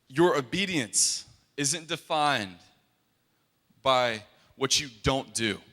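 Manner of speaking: slow, weighty Jamaican prophetess; slow Jamaican accent. Retold or imitated. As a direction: deliver the prophecy slowly in a light Jamaican accent. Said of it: "I'm gonna do an accent for you".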